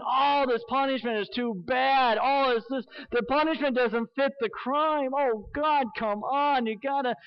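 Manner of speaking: a lightly hammed-up whiny plea to God; whiny complaining. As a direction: whine it like a sulking complainer. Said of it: "That he is a whiner saying".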